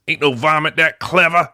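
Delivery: put-on backwoods voice; Mister Searcy. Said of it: "Mister Searcy says".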